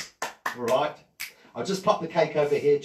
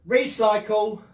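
magic word; 5 semitones higher, 7 dB louder, slower than usual. Shown as a demonstration. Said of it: "guys, say".

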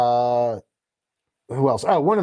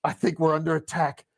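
deadpan line; 2 semitones lower, 7 dB quieter than usual. Retold or imitated. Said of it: "And he's like".

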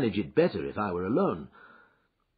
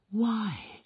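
surprised; 11 semitones higher than usual. Acted. Wife recognises visitor.

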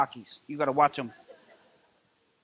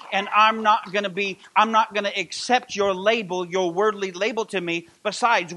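louder, fervent preaching; 4 dB louder than usual. Acted. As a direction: proclaim it to the whole church. Preaching builds to full force.

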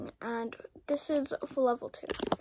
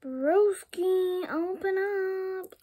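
calling out; 6 semitones higher, much slower than usual. Real, not acted. Calling to friend to open.

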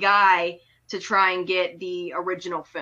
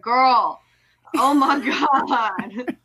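exasperated laugh; 4 semitones higher, 4 dB louder than usual. Real, not acted. Reacting to the heroine.

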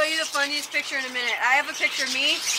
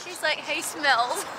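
slow words through an open mouth; mouth propped open; slower than usual. Real, not acted. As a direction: talk with jaw held open. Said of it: "I can't unclip my mouth".

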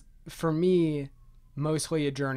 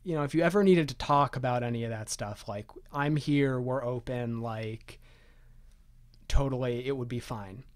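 softly trailing, gentle parental offer; gentle mom; 3 dB quieter than usual. Retold or imitated. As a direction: gently let your kid know the door is open. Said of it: "which is very gently".

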